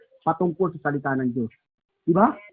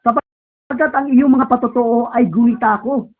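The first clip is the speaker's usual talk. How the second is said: slow reading; slower than usual. Shown as a demonstration. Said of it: "O, sabi rito".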